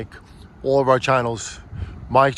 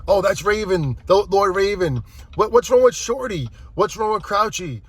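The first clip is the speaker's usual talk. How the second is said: imitating little kids; 7 semitones higher than usual. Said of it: "they start telling me".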